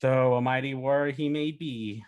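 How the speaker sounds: lightly voiced epic barbarian narration; slow, measured voice-over with weighty pauses; hint of a grand saga narrator. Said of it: "uh, V O, it's like".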